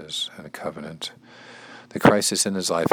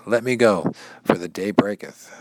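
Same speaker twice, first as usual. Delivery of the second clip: higher, insistent plea to be released; urging; 4 semitones higher than usual. Acted. Angel urging Jacob to release him, urging. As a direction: read the angel's words with urgency. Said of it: "The angel urges".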